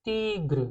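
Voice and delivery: तीग्र said as French tigre, "teegr" with a clipped final r; French pronunciation. Shown as a demonstration. Teacher demonstrating French tigre to the class, careful pronunciation. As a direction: say तीग्र with long ee and no vowel after gr. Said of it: "pronounce कैसे करेंगे?".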